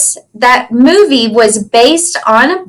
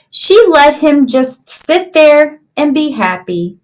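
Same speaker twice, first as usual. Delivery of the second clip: storybook reading. Acted. Teacher reads picture book aloud.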